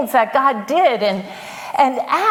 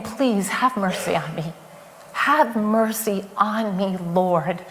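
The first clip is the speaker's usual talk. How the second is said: pleading; 3 semitones lower, 4 dB quieter than usual. Acted. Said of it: "he's crying out to God".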